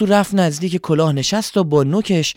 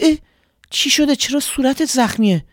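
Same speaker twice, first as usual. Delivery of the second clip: high, worried little bird voice; a small bird asking in alarm, pitched much higher; little swallow voice; 9 semitones higher than usual. Acted. Swallow worried about the scarecrow, high bird voice.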